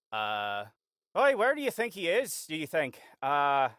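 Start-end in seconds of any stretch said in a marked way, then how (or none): 1.2-3.0 lightly voiced passerby, pitched up; a casual question between locals; overheard local. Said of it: "you hear".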